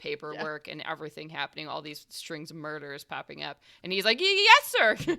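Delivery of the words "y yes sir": high, loud, startled stammer; stuttering rookie. Acted. Rookie answers his boss, high nervous stutter. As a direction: trip nervously over the first word. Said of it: "Stop stuttering".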